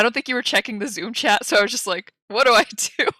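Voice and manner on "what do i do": higher, louder, breaking into laughter; panicked question with a laugh. Retold or imitated. Retold panic in chat.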